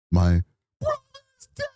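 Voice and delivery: breaking down. Retold or imitated. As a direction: let the grief burst out on the word. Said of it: "I just lost it".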